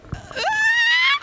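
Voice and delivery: high-pitched fangirl squeal; excited squeal. Retold or imitated. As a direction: squeal like an overwhelmed fan. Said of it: "and I'm just like".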